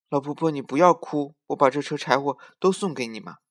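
put-on little girl voice. Girl gives firewood.

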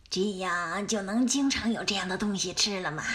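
low, greedy wolf asking hopefully. Acted.

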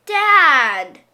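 glad shout. Acted. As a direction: shout for Dad with joy. Child sees father arrive.

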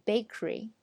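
Bakery as BAKE-ree; only a k, no vowel, in Bakery; two-syllable Bakery; bare k. Shown as a demonstration. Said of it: "其实我们只发了k".

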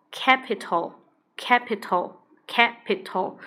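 capital broken into slow separate syllables; teacher splitting capital into syllables; syllables split apart. Shown as a demonstration. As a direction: drag capital out syllable by syllable, three times. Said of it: "我把音节拆分开".

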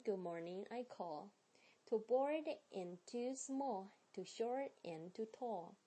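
steady rhythmic rhyme reading; reading again. Shown as a demonstration. Teacher repeating the poem for students, rhythmic. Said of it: "再来一遍".

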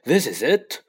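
loud despairing moan; hopeless wail. A narrator's reading. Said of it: "Ron moaned".

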